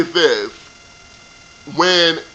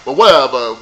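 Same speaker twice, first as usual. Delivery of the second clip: ordinary talk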